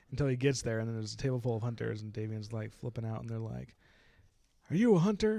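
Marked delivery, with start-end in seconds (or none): 4.7-5.4 suspicious hunter. Retold or imitated. Hunters question Davian.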